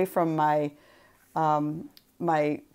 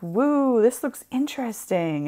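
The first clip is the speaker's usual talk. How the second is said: lightly acted, higher-pitched wow; mock excitement; 5 semitones higher than usual. Crafter telling Russ how she gets hooked, mock excited. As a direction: play up your own delighted curiosity. Acting out own past reaction.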